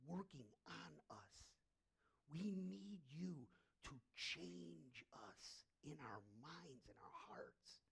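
hushed pastor prayer; spoken prayer. Real, not acted. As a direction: pray humbly for the room. Leads a congregational prayer.

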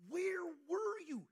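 high, loud, slow grieving cry; a grieving sister's loud, slow plea; anguished cry. Retold or imitated. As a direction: wail it out to him. Weeping Mary cries out.

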